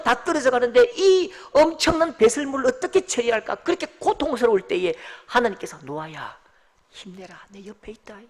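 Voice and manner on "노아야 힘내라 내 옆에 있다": very soft, low whisper of comfort; God whispering. A narrator's reading. God whispering comfort to Noah in the dark ark. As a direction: breathe it gently into Noah's ear. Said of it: "그렇게 속삭여 주시고".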